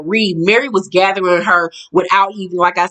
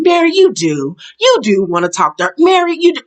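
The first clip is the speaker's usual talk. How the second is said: insistent mock pleading; 3 semitones higher than usual. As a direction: imitate someone butting in to insist. Acting out Heather's pleading interjection.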